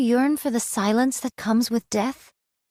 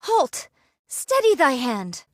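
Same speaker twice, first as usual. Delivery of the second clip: sharp command; 2 semitones higher than usual. Acted. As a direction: snap out the order. Stopping someone grabbing her drink.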